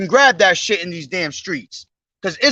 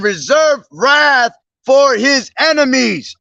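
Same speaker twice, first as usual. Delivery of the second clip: preaching scripture; 3 semitones higher than usual. Acted. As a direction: proclaim the verses like a street preacher. Reads Nahum aloud preaching.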